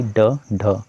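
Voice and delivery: ड ढ said very slowly, each flapped tongue sound clear; slow sound demo. Shown as a demonstration. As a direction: sound out ड ढ slowly so students feel the tongue flick. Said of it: "आप लोग इसको check कर सकते हो ड ढ बोल के".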